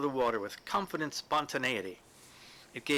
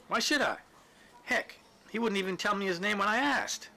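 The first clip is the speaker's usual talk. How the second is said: put-on indignant old man; 8 semitones higher than usual. Christie indignant, pitch high.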